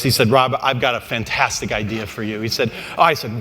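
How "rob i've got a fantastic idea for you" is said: fight promoter. Retold or imitated. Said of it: "in promoter voice".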